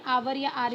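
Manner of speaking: आवर or आर, starting straight on the vowel; silent H. Shown as a demonstration. Teacher giving hour's two pronunciations, silent H. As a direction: say आवर, then आर, with no H at all. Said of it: "इसका pronunciation होता है".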